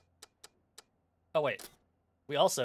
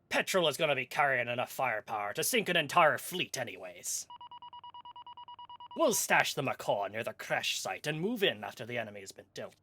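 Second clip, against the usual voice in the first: pirate voice; 5 dB louder than usual. Acted. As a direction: lean into the "yar". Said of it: "not feeling confident about the pirate voice".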